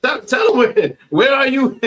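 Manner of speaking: high, loud hype-up; excited cheer. Real, not acted. Teacher cheers on a student reading scripture, excited shouting. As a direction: call it out to rally the room.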